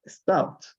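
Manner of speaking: "Stopped" as one syllable, ending in a T; "Stopped" pronounced "stopt"; silent E. Shown as a demonstration. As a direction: say "Stopped" with no E sound before the final D. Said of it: "Acá tampoco se pronuncia la E".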